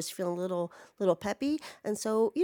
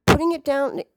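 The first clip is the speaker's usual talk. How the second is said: loud horrified; 4 semitones higher, 8 dB louder than usual. Real, not acted. Horror at jabbing own mouth.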